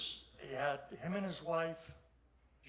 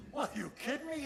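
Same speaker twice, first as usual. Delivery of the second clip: retold disbelief; 11 semitones higher, 4 dB louder than usual. Retold disbelief at fireworks plan.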